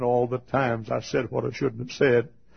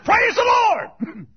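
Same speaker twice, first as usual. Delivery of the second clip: jubilant high shout of praise; slow, whooping revival cry; Billy Bray; 9 dB louder, much slower than usual. Acted. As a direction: draw it out in a loud shout. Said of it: "Billy Bray always shouted".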